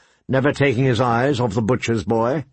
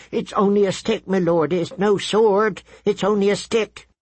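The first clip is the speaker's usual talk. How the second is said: put-on high-pitched, frightened boy; fearful pleading; 7 semitones higher than usual. A narrator's reading. Butcher's boy with a stick to armed prince, pleading.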